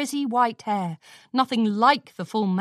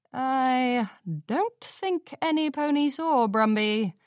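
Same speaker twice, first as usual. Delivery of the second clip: slow, higher, dry sarcasm; sarcastic; 4 semitones higher, slower than usual. Acted. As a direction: drip with mock disbelief. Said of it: "Daring said sarcastically".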